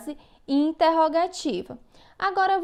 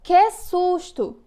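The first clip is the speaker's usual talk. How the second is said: high, louder, very slow "Que susto!" with a fright; exclaiming demo; 5 semitones higher, 5 dB louder, much slower than usual. Shown as a demonstration. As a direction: stretch out "Que susto!" like a startled child. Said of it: "Na frase".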